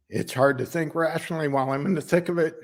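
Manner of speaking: halting, heartfelt plea, often lifting in pitch; earnest working man's appeal. Acted. Worker asks boss Darla for compassion, earnest and halting. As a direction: search for the words as you ask for compassion.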